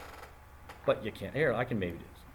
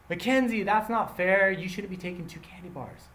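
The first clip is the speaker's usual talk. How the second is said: high, indignant mock complaint; mock protest; 5 semitones higher than usual. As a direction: whine it like upset classmates. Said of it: "everyone's getting really mad at her".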